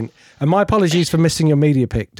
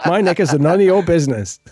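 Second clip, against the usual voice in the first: mimicking Mercedes; 2 semitones higher than usual. Host replays guest's soundbite.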